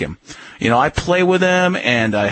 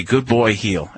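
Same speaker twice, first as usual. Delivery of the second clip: calm praise; 5 semitones lower, slower than usual. Shown as a demonstration. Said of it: "and then I say".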